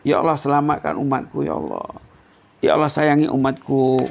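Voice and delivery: mildly mournful pleading; a touch of sorrow in an imitated prayer; tearful prayer, retold. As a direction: plead gently for your people, holding back tears. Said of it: "Rasulullah menangis mendoakan umatnya".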